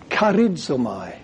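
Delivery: Charizomai said slowly as KHAR-id-zo-my; Greek word charizomai. Shown as a demonstration. Preacher teaching a Greek word: slow, clear. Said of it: "Charis is grace".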